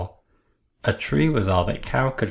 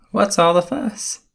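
high, bright-eyed little truck; 10 semitones higher, 4 dB louder than usual. A narrator's reading. Little Blue Truck asking the animals, high voice. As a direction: pitch it up like a small toy truck. Blue's voice.

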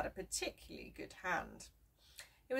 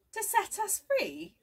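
Jeremy, amazed; 7 dB louder than usual. A narrator's reading. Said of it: "asked Jeremy".

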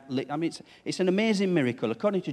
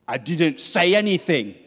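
a hint of a sulky teen, louder and defensive; sulky teenager; 6 dB louder than usual. Lightly voiced teen denying they said anything, mock sulky. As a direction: throw the denial back like a grumpy teen. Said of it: "the response is".

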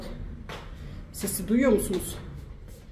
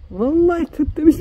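amused exclamation; 7 semitones higher, 7 dB louder than usual. Real, not acted. Laughing at the lookalike.

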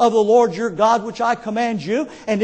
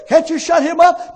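raised, louder retold complaint; mock exasperation; 5 semitones higher, 5 dB louder than usual. Preacher complaining to Teddy about the rooster, mock exasperation. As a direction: call over the racket.

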